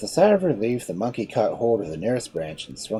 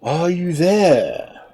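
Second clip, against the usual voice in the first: slow, drawn-out shark call; 10 semitones higher, 8 dB louder, much slower than usual. Acted. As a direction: call up slowly into the tree. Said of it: "cried the shark".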